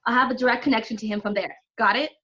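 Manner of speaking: high, loud battle instructions; urgent orders. Acted. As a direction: call out orders under pressure. Urgent battle orders over the noise.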